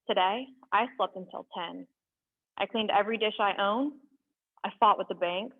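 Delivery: measured, deliberate spoken-word delivery; poem reading. Acted. Reading a found poem to viewers, measured spoken word. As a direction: let each line land with pauses.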